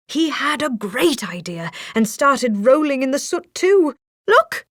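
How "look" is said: bright cheerful exclaim, a bit louder; cheering. A narrator's reading. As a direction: announce the disguise with glee. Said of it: "he cheered".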